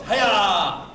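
loud two-syllable kiai; demonstrating a long martial arts yell. Shown as a demonstration. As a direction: stretch the yell out from the gut. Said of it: "Long yells, two syllables".

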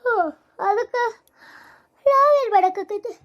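slow, drawn-out sleepy reply. Acted. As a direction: talk through drowsiness, slowly. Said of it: "ನಿದ್ದೆ ಅಂದ್ರೆ ನಿದ್ದೆ ಐತ್ ನನಗರ". (ನಿದ್ದೆಗಣ್ಣಲ್ಲಿ ನಿಧಾನವಾಗಿ)

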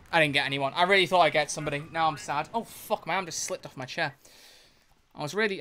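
ordinary talk

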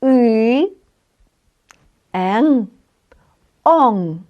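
Polish nasal "ен" and "он" said carefully; letter sounds demo. Shown as a demonstration. Teacher reading the next row of letters aloud, carefully. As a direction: sound out "И", "ен", "он" one by one. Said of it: "подивимось наступний рядок".

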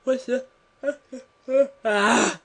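high, slow laughing yelp; laughing cry. Real, not acted. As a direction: burst into shocked laughter. Laughing shocked outburst.

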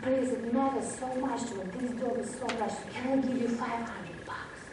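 soft retold plea; pleading. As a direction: beg quietly, as if acting out desperation. Retells second plea for the dog.

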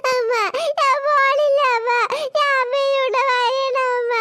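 crying schoolboy pleading with mom; whiny child. Acted. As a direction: plead like a small kid at school gate. Child begging mother not to leave.

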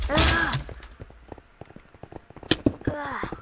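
high-pitched "ah!" of alarm; sudden high cry; startled yelp. Real, not acted. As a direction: yelp as if caught by gunfire. Startled by game sniper fire.

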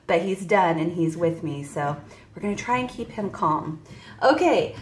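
ordinary delivery

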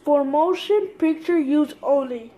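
loud, indignant reading of the bill's fine print; bill text read out in a loud, indignant voice; loud outraged read. Real, not acted. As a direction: shout the label in disbelief. Reading the fake bill aloud, outraged.

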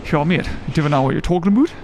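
quick put-on Geordie; Geordie accent. Shown as a demonstration. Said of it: "like, a proper Geordie accent".

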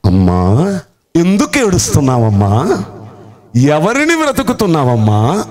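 a hint of Jesus speaking tenderly. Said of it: "ఏమని చెప్పనా".

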